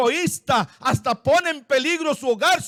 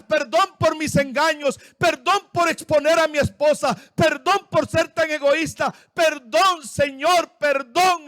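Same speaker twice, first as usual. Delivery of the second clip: Abraham pleading; 3 semitones higher than usual. Acted. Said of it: "Regresó a pedir perdón".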